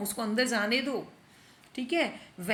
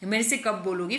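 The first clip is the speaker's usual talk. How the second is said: coaxing plea; 3 semitones lower than usual. Acted. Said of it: "feeling वाले".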